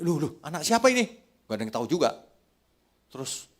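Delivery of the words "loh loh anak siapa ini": guard. Retold or imitated. Security guard finds lost child.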